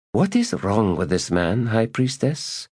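lightly voiced baffled lady; puzzled lady.

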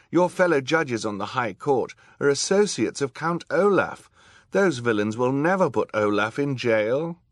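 high, loud warning; urgent young girl. A narrator's reading. Violet warning the judge about her fellow judges, high urgent voice.

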